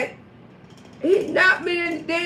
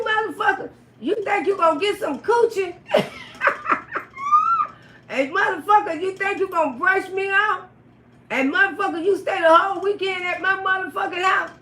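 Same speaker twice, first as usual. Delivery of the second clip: angry rant; 5 semitones higher than usual. Retold or imitated. Acted quarrel, tearing up house.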